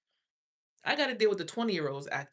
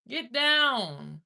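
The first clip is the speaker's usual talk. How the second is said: high, loud order; raised-voice demand; commanding yell; 6 semitones higher, 6 dB louder than usual. Acted. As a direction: holler it like a sharp command. Acting out order to ex.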